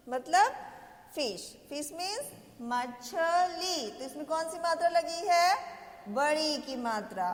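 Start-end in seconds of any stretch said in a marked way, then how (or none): 2.6-3.9 मछली slowly, with a long final ee; drawn-out syllables. Shown as a demonstration. Teacher translating fish for children, मछली drawn out. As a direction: separate the beats of मछली. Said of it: "देर तक बोल रहे हैं".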